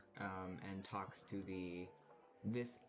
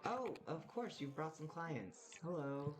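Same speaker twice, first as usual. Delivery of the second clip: delighted bartender; 8 semitones higher than usual. Acted. Bartender welcoming Jay and the new clients, high gushing surprise. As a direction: greet a regular in a high, gushing voice.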